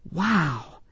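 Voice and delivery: soft, smiling amazement; hushed little wow; smiling wonder. A narrator's reading. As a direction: let it out in quiet awe. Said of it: "Desiree smiled".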